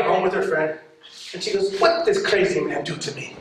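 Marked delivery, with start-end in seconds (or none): 1.8-3.4 lady's puzzled voice. Retold or imitated. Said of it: "I do voices".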